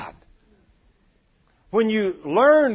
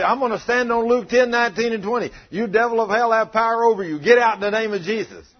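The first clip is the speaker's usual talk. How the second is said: loud, high, forceful command; mock devil rebuke; 6 semitones higher, 6 dB louder than usual. Believer orders the angel of death out, loud mock rebuke.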